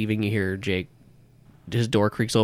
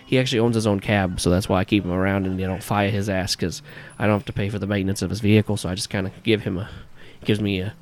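put-on New Yorker accent. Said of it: "this shitty New Yorker accent".

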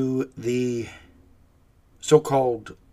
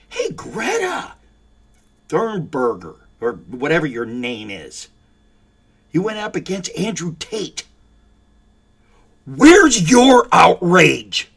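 slow, drawn-out call, then a much louder demand; indignant call-out; 4 semitones higher, 9 dB louder than usual. Real, not acted. Host loudly demanding Greta's outrage, slow indignant shout. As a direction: bellow the question at her, stretching it out.

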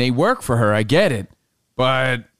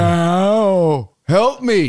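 lightly higher pleading cat; 4 semitones higher, 3 dB louder, much slower than usual. Retold or imitated. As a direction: beg like a little cat. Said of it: "He was saying".

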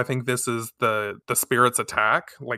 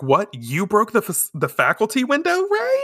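high-pitched, scandalized questioning; incredulous classmate; 9 semitones higher than usual. Retold or imitated. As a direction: act shocked, voice climbing to the end. Shocked classmate confronts Ray in story.

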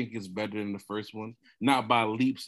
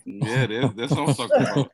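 laughing; 5 dB louder than usual. Real, not acted. Host laughing at guests.

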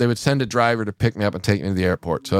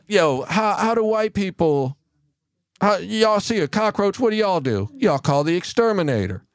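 comic voice; 8 semitones higher than usual. Retold or imitated. Retold comic bit, white people voice.

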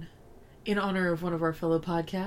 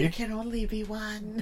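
Highlander impression; 3 dB quieter than usual. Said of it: "The most ridiculous accent".

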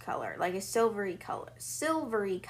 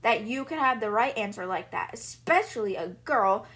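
somewhat louder scolding; father berating Matilda in a moderately raised voice; mild mock shouting; 2 semitones higher, 3 dB louder than usual. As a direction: scold her, a little louder. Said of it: "the father is shouting".

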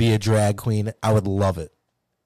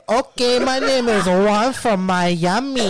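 put-on high, slow, camp Cuban accent; 8 semitones higher, slower than usual. Pitching his drag character in a Cuban accent.

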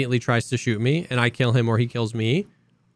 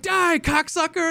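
high, slow mock taunt; hammed-up squeaky insult; mock enemy yell; 14 semitones higher, slower than usual. Player imitating an enemy taunting him on voip, high and slow. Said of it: "he was like".

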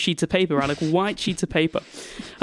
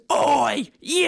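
high, barked mock call; mock drill sergeant; 9 semitones higher than usual. Mean teacher catching running kids, mock sergeant call. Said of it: "this is like a drill sergeant's".

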